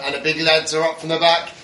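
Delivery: lively football commentary voice; excited commentator. Retold or imitated. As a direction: call it like a match commentator. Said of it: "It was like, uh".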